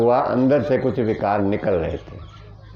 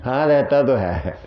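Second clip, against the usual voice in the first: slow, shrugging imitation; mock casual doctor; 2 semitones higher than usual. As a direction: drag it out as if it's no big deal. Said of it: "ऐसे ही कह देंगे". (धीमी, लापरवाह doctor की नकल)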